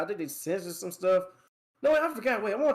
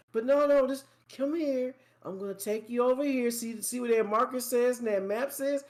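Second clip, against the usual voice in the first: higher-pitched, coaxing mock guide; mock an overbearing tutorial guide, pitched up; hand-holding game; 7 semitones higher than usual. Game leading the player by the hand, mock coaxing. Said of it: "hold your hand like they're your girlfriend".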